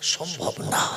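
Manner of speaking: low, soft, sorrowful refusal; hushed, mournful pleading; piteous plea. Retold or imitated. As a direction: beg sadly to be spared. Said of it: "করুণ সুরে বলছে".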